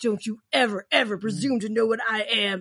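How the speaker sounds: menacing, intense, in-your-face threatening delivery. Retelling Trickster pinning Dean to a wall: imitating Trickster's menacing threat. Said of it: "slams him up against the wall".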